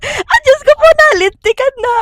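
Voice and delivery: high laughing outcry; laughing exclaim. Real, not acted. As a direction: cry out through laughter. Host reacts laughing.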